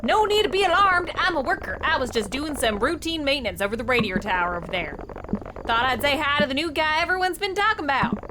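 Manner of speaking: lightly voiced game stranger with an accent; Silas. Worker greets the new guy, lightly put-on accent.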